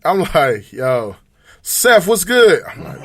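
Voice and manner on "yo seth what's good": slow, drawn-out radio host greeting; mock smooth podcast voice; pod voice. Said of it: "This nigga got on his pod voice".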